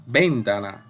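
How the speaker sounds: VENtana with the first syllable punched, sounding odd; stress on VEN. Shown as a demonstration. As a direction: put the force on VEN in ventana. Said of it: "Comenzamos con ven".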